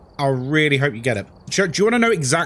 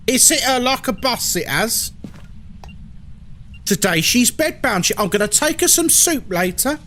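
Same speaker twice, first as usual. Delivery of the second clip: higher, fretting gossipy nan voice; British nan impression; 6 semitones higher than usual. Streamer plays a nan fussing over a sick friend, higher voice. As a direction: natter like a worried old nan. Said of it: "I just did an impression of every white British person's nan".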